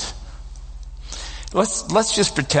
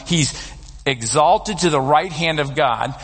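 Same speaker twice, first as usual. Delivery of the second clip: slower, each word weighed; slow emphatic restatement. Shown as a demonstration. Preacher stressing the point to the congregation, slowly and weightily. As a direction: let the phrase land, slowly. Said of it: "And he's exalted to the right hand of God".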